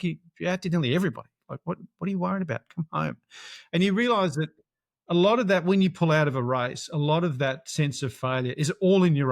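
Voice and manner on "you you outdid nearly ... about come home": wife insisting. Retold or imitated. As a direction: rush to brush his worries aside. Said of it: "She's like".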